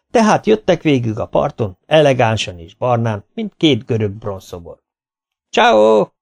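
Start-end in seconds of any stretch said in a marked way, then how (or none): 5.5-6.1 high, loud greeting from afar; a cheery Italian "Csáó!" called out; calling out. A narrator's reading. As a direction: call it across the beach. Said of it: "kiabálták már messziről".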